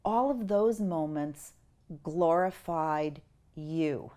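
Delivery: slow, soft, gentle verdict; gentle being of light. Retold or imitated. Being of light answers the dead man, slow and gentle. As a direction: say it slowly and kindly. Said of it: "the being of light said".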